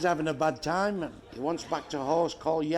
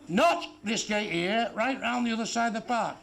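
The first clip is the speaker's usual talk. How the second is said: slow drawn-out repeat. Retold or imitated. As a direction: stretch it out slowly, word by word. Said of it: "Not in here," he says".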